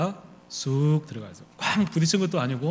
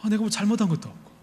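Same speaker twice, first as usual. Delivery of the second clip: higher pitched, resentful whine; aggrieved complaint; 5 semitones higher than usual. Retold or imitated. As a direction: complain that it is not fair. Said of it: "막 마음에 화가 나기 시작하는 거예요". (억울하게 높아지는 항의)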